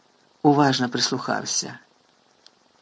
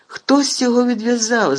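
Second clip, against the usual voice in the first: growling; 8 semitones higher, 5 dB louder than usual. A narrator's reading. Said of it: "загарчав Кат".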